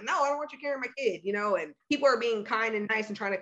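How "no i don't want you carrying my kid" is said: quick refusal. Retold or imitated. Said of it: "I'm like".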